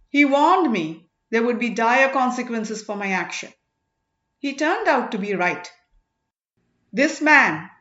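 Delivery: lightly voiced sage accusing before a crowd; stern sage's address. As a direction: lay out the charges with grave authority. Sirithondar addresses the assembly.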